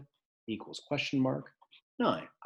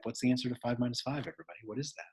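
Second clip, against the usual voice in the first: soft, hushed question; quiet voice; 9 dB quieter, faster than usual. Shown as a demonstration. Teacher hushing the class before the shout, soft. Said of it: "This is gonna be the way".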